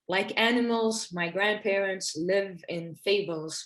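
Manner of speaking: measured, deliberate poem recital; each phrase set apart, verse-like; poetry reading. Acted. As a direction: read your poem to an audience, pausing between phrases. Reads own poem aloud.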